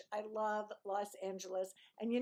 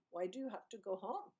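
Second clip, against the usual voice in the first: lightly imitated Indian English, measured question; a hint of Indian accent, softly rising at the end; 4 dB quieter than usual. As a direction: try a slight, imperfect Indian accent. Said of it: "it's better with it a little".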